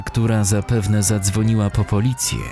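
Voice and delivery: plain reading voice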